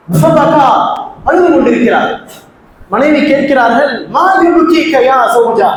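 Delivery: measured, emphatic sermon delivery; preaching. Acted. Preacher expounds a Quran verse to the congregation, preaching. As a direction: preach with drawn-out key phrases.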